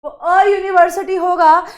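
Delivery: teacher drives the right answer home; emphatic repeat. Shown as a demonstration. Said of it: "जो correct answer होगा ना बच्चों".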